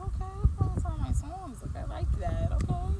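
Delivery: high, loud burst of delight; excited inner voice. Retold or imitated. Excited about the club's music.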